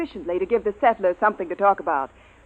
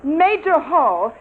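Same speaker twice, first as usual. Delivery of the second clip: stern rebuke; 4 semitones higher than usual. Acted. Commander rebukes interrupter.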